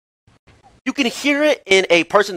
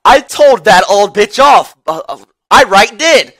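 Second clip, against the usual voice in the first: imitated boast; 4 dB louder, slower than usual. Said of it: "He's like".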